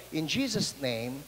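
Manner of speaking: low, soft and slow; hushed healing prayer; soft prayer whisper. Retold or imitated. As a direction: murmur the prayer close to his ear. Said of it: "I just whispered this".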